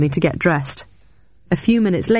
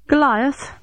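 surprised; 9 semitones higher than usual. Acted. Startled recognition.

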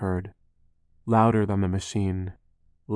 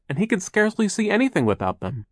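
high-pitched worried lament; crying out; 11 semitones higher, 3 dB louder than usual. A narrator's reading. Violet worries for her brother's sight, crying out. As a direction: plead in dismay for her brother. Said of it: "Violet cried".

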